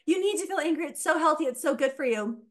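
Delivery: high, fast, over-eager encouragement; mock gushing. Guest mocking people who praise anger, in a high, gushing mock voice. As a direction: gush like a cheerleader for anger. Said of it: "everyone's like".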